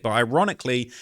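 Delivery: ordinary talk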